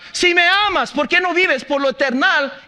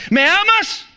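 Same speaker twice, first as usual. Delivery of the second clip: pleading question; 9 semitones higher, 4 dB louder, slower than usual. Acted. God's question, pleading high.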